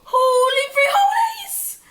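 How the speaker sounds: very high, slow triumphant shout; loud cry. A narrator's reading. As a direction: bellow it as he strikes. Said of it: "cried Scipito".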